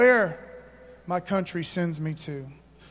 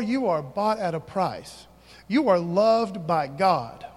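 slow affirmation; slower than usual. Shown as a demonstration. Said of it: "slowed affirmation".

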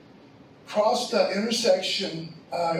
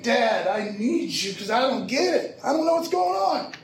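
imitating child crying out. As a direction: retell a confused child's appeal to Dad. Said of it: "she was crying out to me".

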